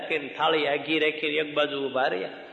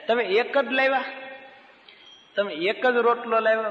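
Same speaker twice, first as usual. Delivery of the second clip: much higher, playful asking; delighted question; 7 semitones higher than usual. Acted. Maharaj delighted asks Bhagat why only one loaf, high and playful. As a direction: tease him fondly about only one loaf.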